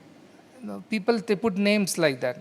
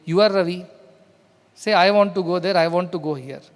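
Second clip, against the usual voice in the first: put-on louder, insistent parent putting the child right; a parent's firm, louder correction; firm scolding correction; 5 dB louder than usual.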